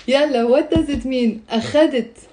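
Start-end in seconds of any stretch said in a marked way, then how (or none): 1.5-2.3 أخذت stressed on the middle syllable خَ; stress on second syllable. Shown as a demonstration. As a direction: say أخذت as a-KHA-det. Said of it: "where is the stress?".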